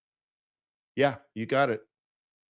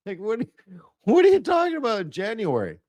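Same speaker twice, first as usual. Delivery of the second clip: higher mock confusion; incredulous higher voice; baffled client; 8 semitones higher than usual. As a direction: ask it like a stunned investor. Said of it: "They're like".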